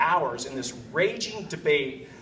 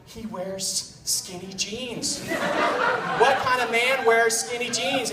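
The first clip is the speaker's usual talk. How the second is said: imitated disapproving wife; 5 semitones higher, much slower than usual. Wife attacking the fiancé at dinner, mock disgust. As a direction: draw out the disapproval, then raise the pitch. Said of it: "she's like".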